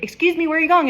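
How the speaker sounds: high, loud disbelieving question; indignant surprise. Retold or imitated. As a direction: call after the cashier walking off. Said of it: "and you're like".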